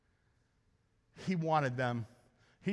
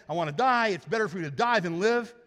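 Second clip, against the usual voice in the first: whiny Jonah; 3 semitones higher, 5 dB louder than usual. Retold or imitated. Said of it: "He said".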